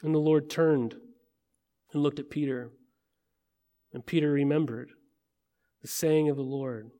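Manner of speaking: soft, measured Bible reading with pauses; scripture reading. Acted. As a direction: read the passage solemnly, phrase by phrase. Reads the scripture passage aloud.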